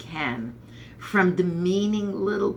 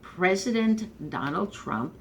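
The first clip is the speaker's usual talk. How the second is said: reluctantly forced out, slow; 3 semitones higher than usual. Real, not acted. Unwilling fan grudgingly naming the president, slow and reluctant. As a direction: drag out President Donald Trump slowly, as if the words stick. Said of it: "it kind of is a little hard to get those words out".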